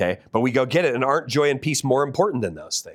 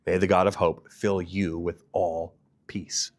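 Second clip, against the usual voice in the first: hushed, breathy whisper of the verse; whispered blessing; 3 semitones lower than usual. Acted. Preacher whispers the blessing to the congregation, hushed.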